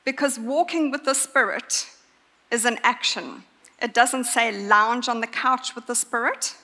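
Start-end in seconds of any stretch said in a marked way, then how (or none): 0.1-1.9 walking lifted and leaned on; preacher pressing the word walking; stress on walking. Shown as a demonstration. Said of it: "I'm going to emphasize the word walk".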